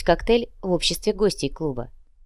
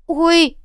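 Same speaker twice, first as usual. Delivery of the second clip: much higher, loud pained yelp; sharp ouch; 12 semitones higher, 6 dB louder than usual. Acted. Manager hit by another stab, yelping loudly. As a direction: cry out as it stabs again.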